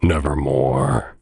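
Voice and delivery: a hint of an ominous raven; lightly voiced raven. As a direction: drop low and lay it down like a dark bird. The raven's answer.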